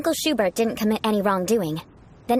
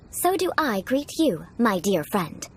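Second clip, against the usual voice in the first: aristocratic greeting demo. Shown as a demonstration. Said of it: "allow me to demonstrate".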